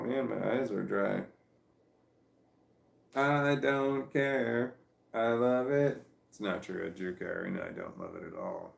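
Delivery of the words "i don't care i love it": slow, drawn-out loud protest, higher; hammed-up stubborn declaration, then taken back; mock defiance. To herself about the dry eyes, mock defiant shout.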